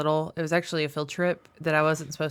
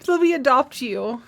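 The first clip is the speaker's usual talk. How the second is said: gushing; 8 semitones higher, 5 dB louder than usual. Acted. Gushing over lonely movie boy.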